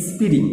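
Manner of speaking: স্প্রিং said as "is-piring"; added initial i. Retold or imitated. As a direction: open স্প্রিং with a stray "i". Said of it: "ই add করে দেয়".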